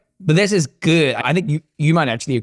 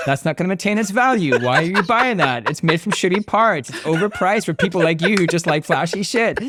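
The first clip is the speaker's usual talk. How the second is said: lightly voiced scolding friend, a bit higher; mock the nagging voice in his head; imagined Kib's voice; 4 semitones higher than usual. Buyer hears his friend scolding the watch purchase, mock scolding. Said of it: "I had Kib's voice in my head going".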